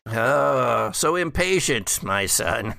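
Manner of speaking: a hint of mocking patience; lightly voiced father, patronizing; condescending father. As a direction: talk down to the impatient son. Father NPC chides his son.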